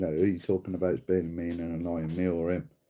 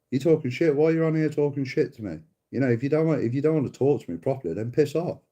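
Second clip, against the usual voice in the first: higher, heated rant at a troll; angry telling off; 5 semitones higher than usual. Real, not acted. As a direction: snap back at him. Telling off abusive commenter.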